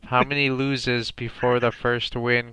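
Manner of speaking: slow, even robot announcer; robotic voice. Pretend. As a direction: read it like a computer. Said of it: "in a robotic voice".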